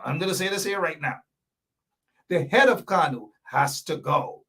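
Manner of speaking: quick, lightly voiced TV host declaration; a hint of a TV presenter, fast; Wayne Caesar voice. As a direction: announce it like a host laying down the law. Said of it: "I'll say this in a Wayne Caesar voice".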